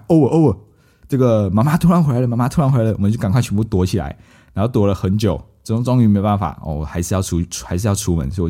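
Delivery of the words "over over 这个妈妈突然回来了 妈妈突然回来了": panicked alert. Retold or imitated. Sister alerted, mom arriving.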